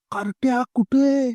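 put-on aunt shrieking in alarm at the boys. A narrator's reading. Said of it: "आत्या किंचाळली".

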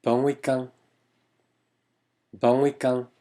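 week-end said the French way, "wee-kahn", after a nasal Bon; French-style week-end with a nasal ending; French pronunciation demo. Shown as a demonstration. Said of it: "발음은 조금 달라요".

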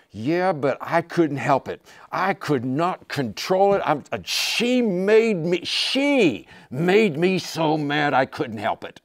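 high, loud, slow complaining husband; whiny excuse. Acted. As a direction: plead that she made you do it. Angry husband's excuse voiced.

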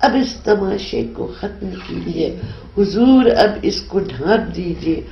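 measured, solemn Urdu recitation; poem recital. Acted. Poet reciting her nazm to the interviewer, solemn recital. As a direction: recite each line like a verse being read aloud.

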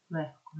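Легко with a voiceless Х before К; devoiced consonant. Shown as a demonstration. Teacher showing assimilation to students, devoiced Г in Легко. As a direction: say Легко with Г turned into Х. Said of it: "робить його глухим".

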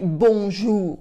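lightly hammed French-character accent; heavy movie French accent. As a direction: say it like a film Frenchman. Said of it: "with a super heavy accent".

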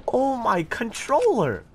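high, slow excited cry; shrieking jackpot winner. Real, not acted. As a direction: cry out in amazement. Shocked exclamation during fight.

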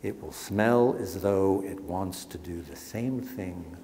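measured, dramatic book reading; reading aloud. Acted. Author reads his anatomical museum passage, ominous.

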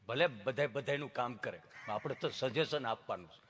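soft, low, halting; imitated tongue-tied man; stammering friend. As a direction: get stuck, then answer quietly. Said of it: "જીભ જલાય, સોંટે અટકે".

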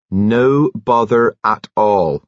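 slow, drawn-out friendly reassurance; cheery reassurance. A narrator's reading. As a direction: brush it off kindly, taking your time. Nurse cheerfully reassures flustered man.

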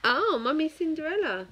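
high, loud laughing delight. Real, not acted. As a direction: laugh through the words. Laughing at daughter's answer.

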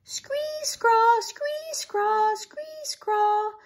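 high alternating screech and squawk; angry scolding robin. A narrator's reading. Robin scolds the girls, angrily screeching. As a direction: scold in shrieking bird cries. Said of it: "scolded the robin, sounding more and more angry".

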